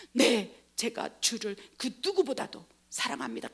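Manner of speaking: 띄엄띄엄 진심을 담은 대답; 차분히 고백하는 베드로 연기. Acted. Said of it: "진정으로". (진심을 담아 담담하게)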